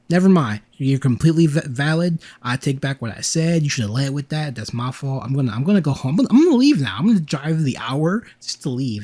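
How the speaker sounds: retold flustered retreat, jumping up in pitch midway; flustered backpedalling. Speaker retells backing down to an embarrassed friend, flustered backpedalling. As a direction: scramble to take it all back.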